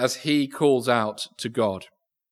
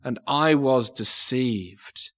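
crying out; slower than usual. Acted. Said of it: "he cries out to God".

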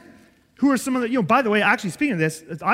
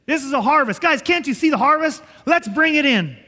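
rallying call; 4 semitones higher, 5 dB louder than usual. Real, not acted. Preacher rallying the congregation.

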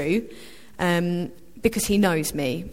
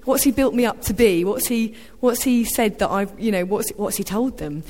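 mock panic; 4 semitones higher than usual. Rose fretting over dad's boasting, a mock panic. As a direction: fret aloud about what was said. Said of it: "my first reaction was to panic a little bit".

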